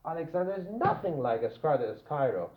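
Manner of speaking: weight on "nothing like"; emphatic NOTHING LIKE. Shown as a demonstration. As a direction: stress "nothing like", then let the rest fall. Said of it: "I'm emphasizing this equative".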